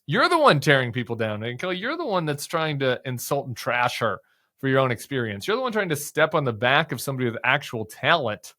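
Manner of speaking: heated, accusing tone; angry rant. Real, not acted.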